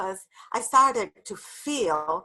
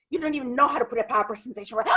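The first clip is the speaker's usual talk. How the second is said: fast; scolding inner critic; 2 semitones higher, much faster than usual. Retold or imitated. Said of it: "the inner dialogue".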